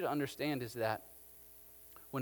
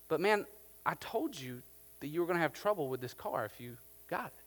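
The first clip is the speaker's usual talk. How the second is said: calm reminder; 5 dB quieter than usual. Acted. Seller calmly reminds complaining buyer.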